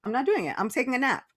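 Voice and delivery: hammed-up couch potato ducking chores; mock lazy refusal. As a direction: pretend to be the one who won't bother. Joking about skipping a to-do list.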